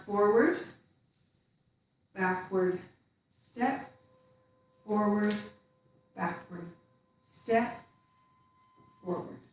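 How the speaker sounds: cue each step as you move; counting the steps. Shown as a demonstration. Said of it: "if we try that again".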